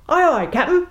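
startled sailor answers captain; startled first mate. Acted. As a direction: snap to attention, flustered.

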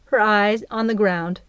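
usual speaking voice

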